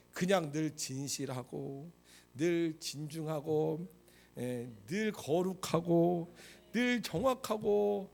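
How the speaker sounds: slow, drawn-out, solemn listing; dull churchgoing man. Retold or imitated. Preacher portraying boring church bachelors, slow solemn drone. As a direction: drag out each virtue like a humourless man. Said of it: "교회 다니는 남자들이".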